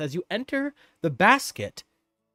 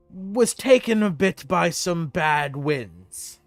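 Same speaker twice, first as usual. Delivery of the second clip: noble knight. Acted. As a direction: introduce yourself with dignity. NPC introduces himself.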